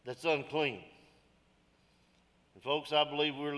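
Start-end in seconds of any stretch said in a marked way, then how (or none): 0.0-0.8 slow, solemn declaration; solemn lament. Retold or imitated. Isaiah lamenting his unclean land, slow and solemn. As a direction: let it fall heavily at the end. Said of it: "and he said".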